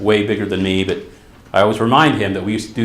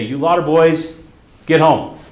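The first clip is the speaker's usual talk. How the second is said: put-on raised dad's call to send boys home; 4 semitones higher, 3 dB louder than usual. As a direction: call them off home like a firm dad. Dad calls neighbor boys home.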